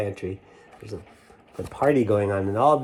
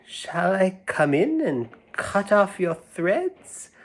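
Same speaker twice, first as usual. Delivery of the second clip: cat's voice; 8 semitones higher, slower than usual. Acted. Cat voiced.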